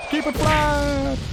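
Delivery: high, drawn-out mock catchphrase; mimicking a sign-off. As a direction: parody the squeaky sign-off, stretching it out. Mimicking the clip's high-voiced sign-off.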